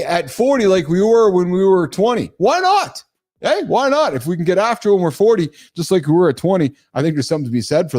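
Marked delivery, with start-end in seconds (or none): 2.4-4.1 high, punchy, bouncing; playful defiance. Real, not acted. Host arguing with his script: playful defiance. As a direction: throw it out like a dare. Arguing back against notes.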